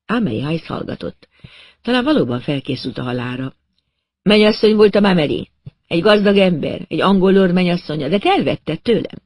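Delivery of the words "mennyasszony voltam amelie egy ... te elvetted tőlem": a little higher, intense and accusing; a hint of an unhinged rival with a grudge; Vicky, lightly voiced mad woman. A narrator's reading.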